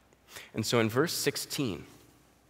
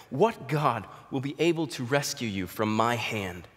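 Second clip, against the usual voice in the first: mocking; 2 semitones higher than usual. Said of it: "He's mocking God".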